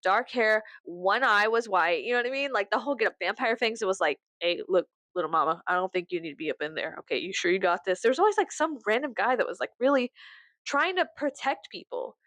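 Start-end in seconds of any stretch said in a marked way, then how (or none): 4.4-8.0 a hint of a scary big guy, lower; lightly voiced scary protector. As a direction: lightly play the big protective stranger, pitched down. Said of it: "scary motherfucker with a lot of tattoos".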